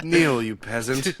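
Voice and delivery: booming echoing villain monologue. Pretend. Mock royal insult.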